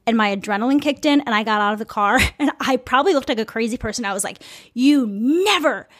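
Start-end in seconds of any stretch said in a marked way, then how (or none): 4.7-5.9 retold indignant scolding, moderately raised; re-enacted angry reprimand. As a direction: tell him off, stressing the outrage. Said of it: "I just got so mad at him".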